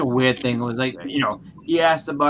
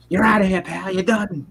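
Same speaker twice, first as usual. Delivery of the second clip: higher, louder mock angry kick-out; angry dismissal; 7 semitones higher, 4 dB louder than usual. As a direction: imitate a furious host throwing someone out. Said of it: "the dude was just like".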